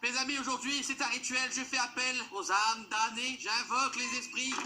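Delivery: seance medium. Pretend. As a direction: summon the spirits grandly. Plays a medium invoking spirits.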